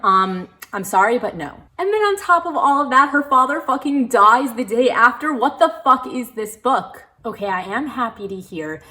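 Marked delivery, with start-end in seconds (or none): 1.8-7.0 high, loud, disbelieving outrage; outraged rant. Real, not acted. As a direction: rant at the book, higher and louder.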